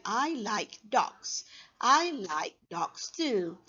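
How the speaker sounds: slow model reading, each phrase falling on DOGS and TOO; practice sentence reading. Shown as a demonstration. Teacher models sentences for practice, slow intonation. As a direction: say "I like dogs" slowly for repeating. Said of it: "you can practice reading the sentences".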